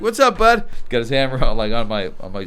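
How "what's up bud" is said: imitating Travis. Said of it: "He's like".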